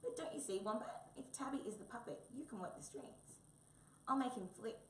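high, coaxing little mouse chirp; chirruping. A narrator's reading. Mouse consoles disappointed Wombat, chirruping. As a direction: chirrup it to cheer a friend. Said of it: "so it chirruped".

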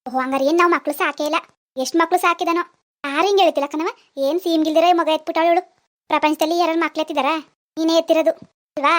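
indignant scolding. Acted. Grandmother quarrels with granddaughter.

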